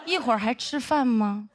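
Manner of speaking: slow, sneering sarcasm; sarcastic drawl. Retold or imitated. The old senior greeting her on the plane, slow sarcastic sneer. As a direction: drag out 大明星 mockingly. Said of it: "非常阴阳说".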